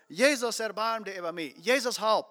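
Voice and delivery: mild mock shout, punched on each Jesus. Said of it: "er raubt bloß nach viel Leuten, schreie ich alles". (een bät lüder ropen)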